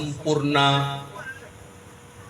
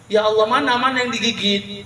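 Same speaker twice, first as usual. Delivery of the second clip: worried Prophet; 7 semitones higher than usual. Acted. The Prophet asks about the bite.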